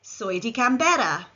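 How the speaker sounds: "Soy de Canberra" said in Spanish; model Spanish phrase. Shown as a demonstration. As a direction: say "Soy de Canberra" clearly for learners. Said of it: "Repeat after me".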